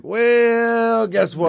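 very high, drawn-out mock voice; Farnham. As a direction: stretch the first word up high. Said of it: "Farnham's like".

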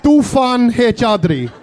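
slow, amused repetition of the name; slowly echoing the mumbled name; slow mock echo. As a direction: drag the name out, laughing. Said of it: "It sounded like".

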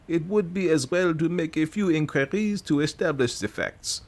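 lightly voiced fussy Belgian detective; Poirot voice.

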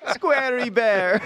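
a bad laughing attempt at a Russian accent; mock Russian accent. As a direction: drag out squarey bear in a bad Russian accent. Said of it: "If it's said in a Russian accent".

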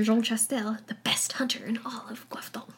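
put-on a light French accent on the names; playful touch of French accent. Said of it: "saying things with a French accent".

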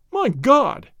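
loud high exclamation; cried out. Acted. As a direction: burst out in alarm. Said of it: "he cried".

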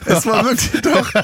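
giggling through the words; fighting back laughter; stifled giggles. Real, not acted. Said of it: "Hör auf zu lachen".

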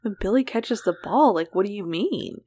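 mildly baffled quote; retold confusion. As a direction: repeat it as if it makes no sense. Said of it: "I was so confused".

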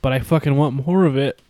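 laughing through the line. Retold or imitated. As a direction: giggle while saying it. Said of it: "And then you're like".

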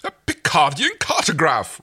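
high, loud delighted exclamation; enthused. Acted. Rigel gushing over the gifts, high and excited. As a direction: gush over the find with high glee. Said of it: "Rigel enthused".

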